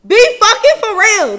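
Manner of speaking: loud, slow angry snap; furious reply to him; mad. Retold or imitated. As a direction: say it like you've had enough. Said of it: "I'm trying not to get mad".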